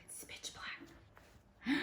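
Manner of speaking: slow, very soft breathy whisper; spooky whisper. Acted. Teacher describing the dark to the kids, slow spooky whisper. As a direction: hush it like the lights went out.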